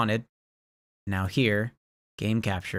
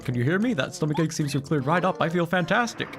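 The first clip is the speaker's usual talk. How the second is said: whale voice; 6 semitones higher than usual. Acted.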